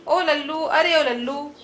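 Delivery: mock call for Lallu. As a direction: call the servant from another room. Wife calls out to servant.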